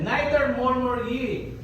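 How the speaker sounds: slow, deliberate Bible verse read; measured King James reading; solemn scripture reading. Acted. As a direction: lay out each word of the verse slowly. Reads scripture slowly.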